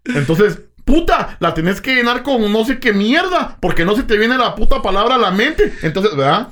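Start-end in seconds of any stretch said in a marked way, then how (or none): 0.8-5.7 higher, heated rant; frustrated exclamation. Real, not acted. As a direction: spit out the frustration. Venting about missing words. (desahogo exaltado, mucho más agudo)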